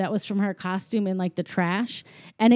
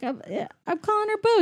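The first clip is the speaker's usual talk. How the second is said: higher, quick retold protest; mock defensive; 12 semitones higher, faster than usual. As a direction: blurt it out fast and higher, imitating him. Acting Sully defending the name.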